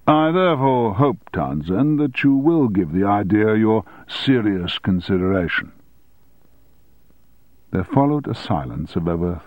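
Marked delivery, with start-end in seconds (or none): 0.1-5.7 lightly voiced pompous old headmaster; measured, self-important lecturing to a pupil. Headmaster closes his proposal.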